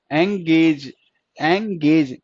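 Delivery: एंगेज in two careful beats, एं-गेज; sounded out. Shown as a demonstration. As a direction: pronounce एंगेज deliberately, slight break after एं. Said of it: "word की sound पे जाना है". (एंगेज साफ़, एं-गेज अलग करके)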